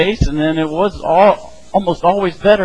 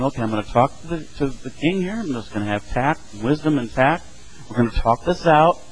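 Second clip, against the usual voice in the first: softer, measured acted reassurance; calm, composed; 5 dB quieter than usual. Daniel planning to talk to the king, calm and composed. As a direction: say it quietly and tactfully. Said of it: "he was calm, he was composed".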